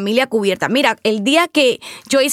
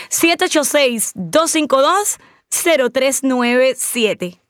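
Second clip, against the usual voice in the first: slow phone number; slower than usual. Shown as a demonstration. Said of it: "es el número a marcar".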